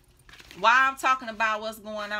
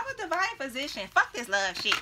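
mocking imitation; 3 semitones higher than usual. Ancestors mimicking you talking about divine position, mocking. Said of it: "you can't be walking around here talking about".

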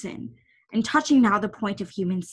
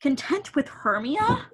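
whispered, rising question; whispered scorn; 5 semitones higher than usual. Acted. Lysander scoffing at Helena's advice, whispered. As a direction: breathe it out in disbelief.

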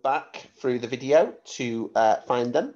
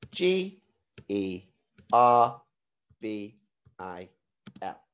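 spelling out letters. Shown as a demonstration. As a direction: spell each letter clearly for the class.

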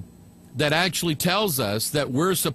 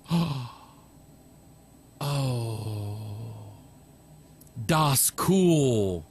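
Luther in awe, mock German accent; 6 semitones lower, much slower than usual. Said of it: "'cause he was German".

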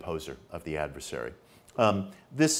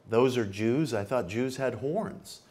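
put-on Cockney accent; 3 semitones higher, slower than usual. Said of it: "in a very thick Cockney accent".

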